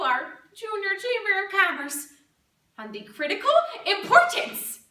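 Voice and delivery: lightly played chirpy crafts lady giving a speech; lively swings, punching up the key words; Barbara Ellen Diggs. Crafts lady proudly addressing the Junior Chamber of Commerce, lightly hammed-up.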